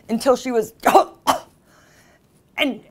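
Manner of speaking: choked gasps after the words; imitated choking. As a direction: act out gagging on something. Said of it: "started choking on the ice cubes".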